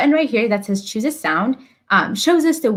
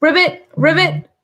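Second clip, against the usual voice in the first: higher, louder ribbit call; frog voice; 6 semitones higher, 4 dB louder than usual. Acted. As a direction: croak like a cartoon frog. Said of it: "That's a great impression".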